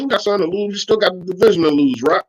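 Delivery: usual speaking voice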